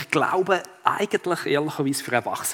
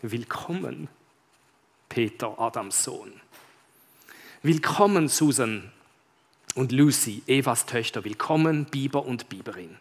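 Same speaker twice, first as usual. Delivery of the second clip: solemn lion greeting; 2 semitones lower than usual. Acted. Aslan welcomes the children and beavers, lightly voiced solemn greeting. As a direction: greet each one gravely, name by name.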